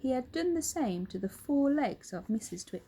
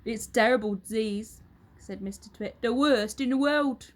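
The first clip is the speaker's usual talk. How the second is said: put-on a louder, gloating old husband; Mr Twit; 6 dB louder than usual. Husband taunts his wife, loud and gloating. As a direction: lean in, relishing the lie.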